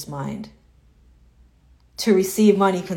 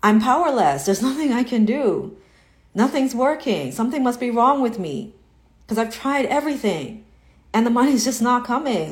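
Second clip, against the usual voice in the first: higher, hammed-up hopeless whine; mock self-pity; 3 semitones higher than usual.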